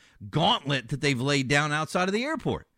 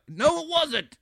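sarcastic retort; 12 semitones higher, slower than usual. Real, not acted. Host answers his own mock quote.

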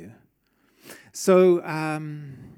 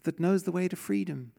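awed bird; 2 semitones higher, 6 dB quieter than usual. Pretend. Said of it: "And they go".

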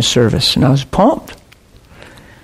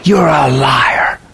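slow, drawn-out mock shout; mock yell, not at full volume; retold scream; much slower than usual. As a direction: imitate his screamed accusation, each word stretched. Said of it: "He's screaming at me".

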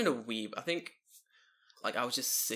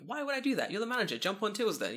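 retold outburst; 9 semitones higher than usual. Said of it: "I was like".

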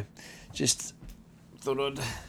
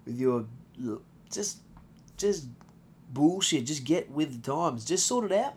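exasperated rant; 3 semitones higher, 3 dB louder than usual. Real, not acted. Get the fuck out of here segment.

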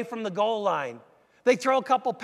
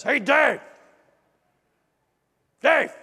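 calling across the street, louder; booming call; 4 semitones higher, 6 dB louder, slower than usual. Retold or imitated. Neighbor calls out to Dave from across the street, booming. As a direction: hail him from across the road. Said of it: "this big booming baritone voice".

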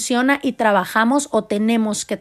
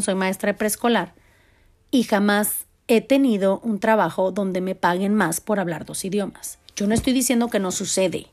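ordinary talk, nothing marked

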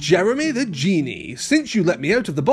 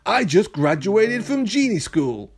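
high genie voice, admitting; sheepish admission; 6 semitones higher than usual. A narrator's reading. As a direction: own up as the genie. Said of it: "Jeremy admitted".

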